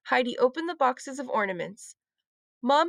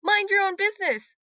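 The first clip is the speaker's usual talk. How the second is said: sharp retort; 8 semitones higher, 3 dB louder than usual. A narrator's reading. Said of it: "said Lucy".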